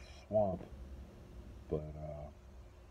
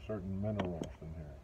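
talking around pipe stem; words through clenched teeth; pipe in mouth; 4 dB quieter, faster than usual. Real, not acted. Seen 0: Pipe stem clenched between teeth while he speaks, smoke visible.

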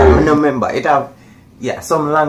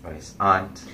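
Jamaican accent; 3 semitones lower, 4 dB quieter than usual. Shown as a demonstration. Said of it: "in a Jamaican accent and not, you know, the American accent".

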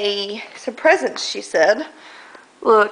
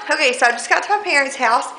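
out of breath; 2 semitones higher, faster than usual. Real, not acted. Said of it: "really out of breath when I come up their stairs".

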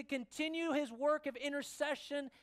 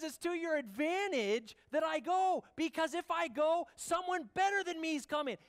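louder, higher proclaiming of the promise; forceful preaching; 6 semitones higher, 5 dB louder than usual. Acted. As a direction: proclaim it with full pulpit force. Preaching Jesus' words forcefully.

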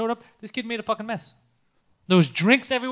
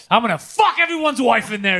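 mock yell, slightly raised; retold yell; 3 dB louder than usual. Retelling a friend's outburst about the club, mock yelling. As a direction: blurt it out like a half-hearted yell. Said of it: "He started yelling".

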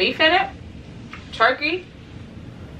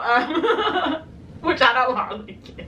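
laughing; 5 semitones higher, slower than usual. Real, not acted. Laughing about rare quiet time.

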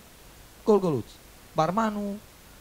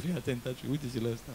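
hushed warning; 4 semitones lower, 7 dB quieter than usual. Acted. Barman hushes the boss.

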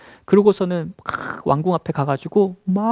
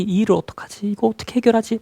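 higher-pitched mock worrying; acted fretting; 6 semitones higher than usual. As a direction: fret over a problem in character. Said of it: "고민하다가". (고민하는 척 높인 목소리)

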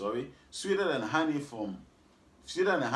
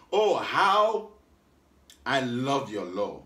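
exclamation; 6 dB louder, slower than usual. Acted. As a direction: burst out on Oh, how. Scripture exclamation read with force.

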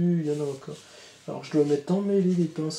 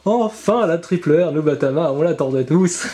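excited yell; 3 semitones higher, 5 dB louder than usual. Real, not acted. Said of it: "m'entendre gueuler".

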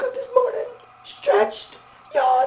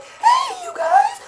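much higher, voice cracking; high greeting; 5 semitones higher, much slower than usual. Shown as a demonstration. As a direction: say hey you guys high and thin. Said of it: "just as fucking weird".

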